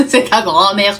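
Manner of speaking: says it through a burst of laughter; laughing. Retold or imitated. Mother laughing at her son's fear, laughing. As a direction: crack up as you say it. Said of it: "partie en fou rire".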